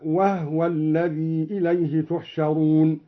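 وهو said "wahwa", no vowel on the ha; slow recitation with وهو as "wahwa"; vowelless ha. Shown as a demonstration. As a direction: run h straight into w in وهو. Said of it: "وأسكن الهاء من قوله تعالى".

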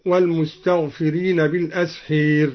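بالأسحير with the long a leaned toward e; imala on الأسحار. Shown as a demonstration. Reciter demonstrates Duri's imala, tilted vowel. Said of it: "وأمال أيضًا".

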